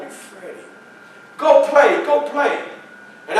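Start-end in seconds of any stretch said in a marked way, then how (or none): 1.4-2.6 raised, insistent grandmother voice; grandmother shooing. Retold or imitated. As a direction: wave the boy off firmly.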